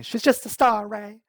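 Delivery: loud, high, exasperated outburst; Princess Tiana's bark. Retold or imitated. Princess setting Ray straight about Evangeline, barked. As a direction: bark it out as a quoted movie line. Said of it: "Princess Tiana barked at Ray".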